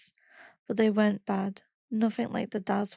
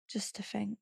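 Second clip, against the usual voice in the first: tearful; 8 dB quieter than usual. Retold or imitated. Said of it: "he was crying".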